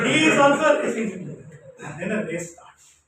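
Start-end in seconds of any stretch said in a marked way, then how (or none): 0.1-1.4 laughing through the words. Real, not acted. Speaker laughing as he tells how the race began. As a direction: chuckle while telling it.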